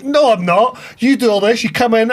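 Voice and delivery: indignant manager. Retold or imitated. Manager voiced defending himself.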